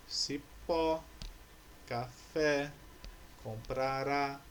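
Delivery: cipó, café, comprará with the final syllable stressed; stress on last syllable. Shown as a demonstration. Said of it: "possuem a última sílaba como sílaba tônica". (cipó, café, comprará com ênfase na última sílaba)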